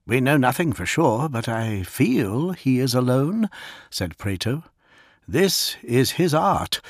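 slightly voiced Praeto warning his captain; lightly voiced grim librarian. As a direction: speak as a brooding psyker sensing the enemy.

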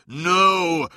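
loud, high drawn-out cry; alarmed shout. A narrator's reading. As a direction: cry out to prevent it. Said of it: "cried Magnus".

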